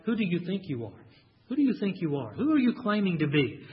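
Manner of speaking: lightly sneering, a touch of contempt; scornful challenge. Retold or imitated. Preacher reading the Jews' retort with mild scorn. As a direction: ask it as if doubting his right to speak. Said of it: "I almost kind of read that like".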